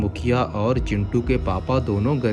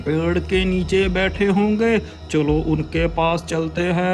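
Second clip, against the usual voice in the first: high hurried voice; urgent village head; 9 semitones higher than usual. Acted. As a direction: rush to help. (जल्दबाज़ मुखिया)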